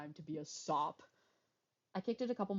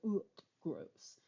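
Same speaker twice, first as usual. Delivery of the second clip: gagging ugh. Shown as a demonstration. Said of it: "It's like".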